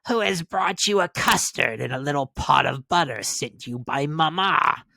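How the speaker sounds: wolf pretending to be the sweet girl; wolf faking girl's voice. A narrator's reading. Wolf at grandmother's door faking the girl's voice. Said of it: "counterfeiting her voice".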